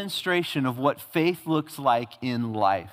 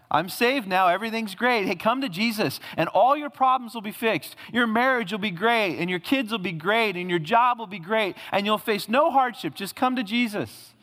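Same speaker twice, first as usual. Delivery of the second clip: higher, a touch of mock sugary cheer; mocking false promise; 5 semitones higher than usual. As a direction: lightly parody a glib salesman of easy faith. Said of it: "Don't you hear people talk like that?".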